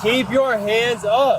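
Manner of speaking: loud, slow barked commands; commanding shout. Real, not acted. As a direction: order him firmly, word by word. Officer commanding suspect.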